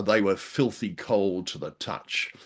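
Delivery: reads the passage slowly, savouring the horror; a touch of spooky read-aloud; slow dramatic reading. Shown as a demonstration. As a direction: linger on each creepy word like a storyteller. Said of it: "read this out".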